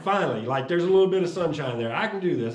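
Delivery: happy relief after good news; relieved excitement. Retold or imitated. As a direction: let the relief burst out.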